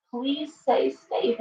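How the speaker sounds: slow it right down and mean every word; slow, earnest plea. Real, not acted. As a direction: stretch out "Please stay safe" slowly, each word weighted.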